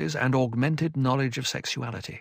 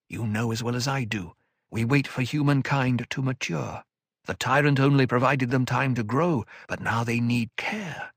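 steady elder counsel; calm older mentor. Acted. Odrade explains.

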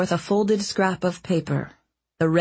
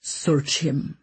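brusque order. Acted. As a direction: snap the order coldly. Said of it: "he ordered brusquely".

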